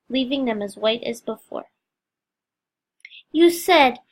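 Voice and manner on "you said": faltering start, broken off; hesitant. Acted. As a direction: start then break off. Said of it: "she began and broke off".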